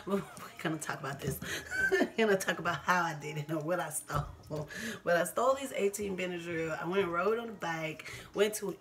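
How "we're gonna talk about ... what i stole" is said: talking through laughter; laughing at her own past. Real, not acted. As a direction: chuckle while explaining.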